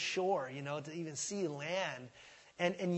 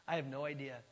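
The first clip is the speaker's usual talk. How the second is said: laughing admission; 4 semitones lower, 3 dB quieter, faster than usual. Shown as a demonstration. Preacher showing how to admit ignorance, laughing lightly. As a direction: chuckle through I have no idea. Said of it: "It's better just to say".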